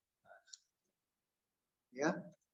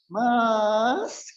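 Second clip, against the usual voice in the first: drawn-out, higher-pitched "Mas"; gentle Solo call; 6 semitones higher, 4 dB louder than usual. Acted. Preacher imitating a Solo woman calling, gentle drawl. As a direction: call out sweetly, stretching the word. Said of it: "Kalau manggil gimana?".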